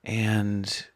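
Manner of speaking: measured meditation voice with long pauses; guided meditation. Acted. Meditation guide helping listeners release resistance, calm and measured. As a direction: guide them inward calmly, leaving space between phrases.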